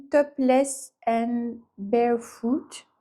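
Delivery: slow English title in a French accent; careful French-accented English; self-mocked English accent. Real, not acted. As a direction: read the English slowly, with a French speaker's accent. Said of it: "avec mon magnifique accent".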